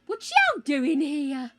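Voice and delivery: slow, drawled Southern greeting; mock Southern drawl. Streamer greets chat in a slow mock Southern drawl. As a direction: put on a hammy Southern twang, slowly.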